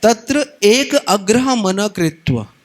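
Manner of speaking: slow, intoned Sanskrit recitation; verse recitation. Shown as a demonstration. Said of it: "एकाग्रता का मतलब क्या होता है".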